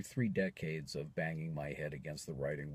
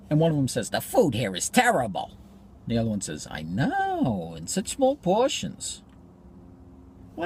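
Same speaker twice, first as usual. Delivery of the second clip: lively joke-telling, pitched up for the punchlines; wry comic monologue; 8 semitones higher, 11 dB louder than usual. Acted. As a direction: tell an old joke as a stage monologue.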